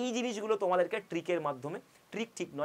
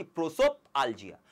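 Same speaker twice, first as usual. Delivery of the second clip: প্রোসোপালজিয়া split in two, a break before আলজিয়া; broken into parts; 4 semitones lower, 4 dB louder than usual. Shown as a demonstration. Teacher showing students how a word breaks up, প্রোসোপালজিয়া said in separated parts. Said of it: "শব্দটার উচ্চারণেই আমার সিলেবেলে ভেঙে যাচ্ছে".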